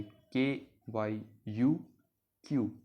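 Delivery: के, वाई, यू spaced apart, then क्यू as one syllable; spelled-out pronunciation. Shown as a demonstration. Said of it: "French में इसे pronounce करेंगे".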